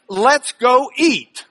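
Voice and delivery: slow West Texas drawl on Let's go eat; drawn-out Texas Panhandle accent; Lubbock drawl. Shown as a demonstration. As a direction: stretch it out like a Lubbock local. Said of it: "That's Lubbock for".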